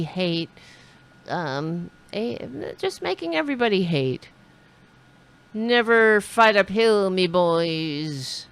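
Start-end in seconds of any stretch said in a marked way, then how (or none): 5.5-8.5 put-on Irish accent. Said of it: "he was Irish".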